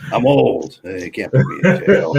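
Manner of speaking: put-on high, playful old shoplifter voice; hammed-up senior getting away with it; mock old-timer's excuse. Old shoplifter's gleeful excuse, acted.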